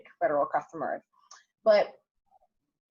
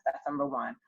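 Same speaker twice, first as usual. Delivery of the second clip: whispered aside; 3 semitones lower, 4 dB quieter than usual. Real, not acted. Guest whispering to herself before moving on, unvoiced whisper. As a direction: drop to a breathy whisper to close the point.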